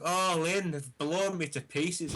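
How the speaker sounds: slow, hammed-up cry of agony; overly dramatic Alan Partridge. Crash victim quoting Partridge to the woman assessing him, overly dramatic. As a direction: play the wounded man melodramatically. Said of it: "he's just overly dramatic".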